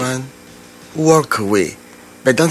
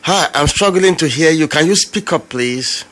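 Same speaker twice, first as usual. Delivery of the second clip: raised voice, higher pitch; to someone hard of hearing; 6 semitones higher than usual. Real, not acted. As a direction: speak up over a bad line. Host cannot hear the caller.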